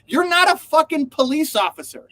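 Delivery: imitating a furious driver, half in jest; mock angry yell. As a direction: tell off a bossy bodyguard. Imagined yelling at a bodyguard.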